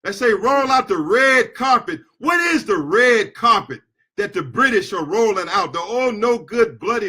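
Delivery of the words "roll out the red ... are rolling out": heated shout. Real, not acted. Angry speech against the British.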